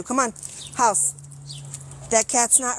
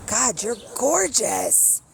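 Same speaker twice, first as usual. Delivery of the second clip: admiring the cat; much slower than usual. Real, not acted.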